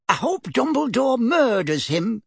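furiously. Acted. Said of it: "said Missus Figg furiously".

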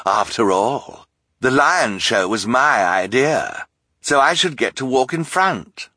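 slow, sly, self-satisfied count; boastful villain. A narrator's reading. Count Olaf boasts to the crowd, slow and sly. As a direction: claim the credit with a sneer.

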